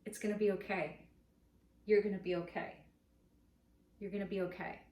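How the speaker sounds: put-on gentle, reassuring words to a crying baby; soothing a baby. Comforting a crying baby, mildly soothing. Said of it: "What do you say to the little baby?".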